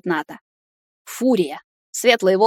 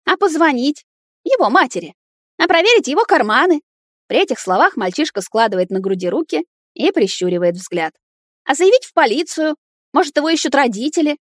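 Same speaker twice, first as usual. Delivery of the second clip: put-on indignant girlfriend; 7 semitones higher than usual. Nata scolds Timur about the strange boy, high and indignant. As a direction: fire off the questions, indignant.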